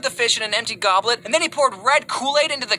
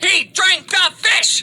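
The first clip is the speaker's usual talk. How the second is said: slow, loud, high disbelief; shocked shout; 9 semitones higher, 5 dB louder, much slower than usual. Retold or imitated. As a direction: drag it out in shock.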